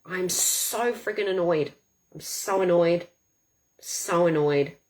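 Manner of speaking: slow, repeated venting, gradually subsiding; annoyed. Shown as a demonstration. Coach tapping on anger until it drops, annoyed. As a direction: let the exasperation wear itself down.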